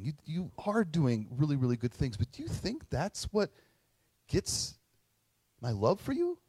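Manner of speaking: tender father. Retold or imitated. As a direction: reassure him, almost hushed. Father gently answers his hurt son.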